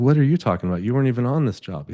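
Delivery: taken aback, voice jumping up; indignant retort. Retold or imitated. Retold indignant reply to caller.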